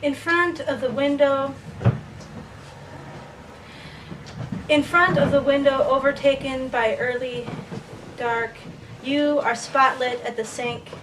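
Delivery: measured verse with pauses between phrases; deliberate poem recital; poetry reading. Acted. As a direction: recite slowly, letting each image stand. Reads poem In the Kitchen.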